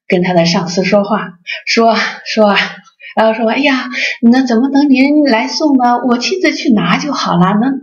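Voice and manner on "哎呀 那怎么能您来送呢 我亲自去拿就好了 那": imitating the wife sweet-talking her boss, pitched higher; mock-deferential, a little sugary; sweet polite tone. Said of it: "就这样的语气啊". (模仿妻子对上司细声细语的客气)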